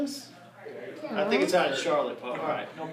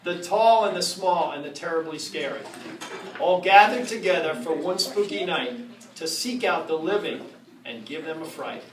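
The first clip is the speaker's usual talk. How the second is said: storybook reading. Acted. Reading a Halloween rhyme aloud to the audience, spooky storytelling. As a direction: read it to the crowd like a spooky storybook. Reads Halloween book to crowd.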